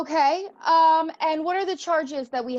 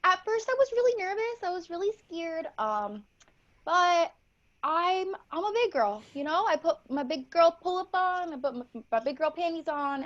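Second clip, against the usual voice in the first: lightly voiced excited little girl at a press conference; a hint of a young girl answering reporters; ten-year-old girl. Eager young witch-to-be answering press questions, lightly girlish.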